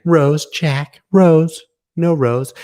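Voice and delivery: high, loud, desperate name calls; Titanic shout. Pretend. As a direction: yell the names like a sinking ship.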